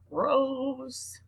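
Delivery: high, disgusted gross. Real, not acted. Reader reacting to the whip nose angler, disgusted. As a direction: recoil at the picture. Reaction to a long fish lure.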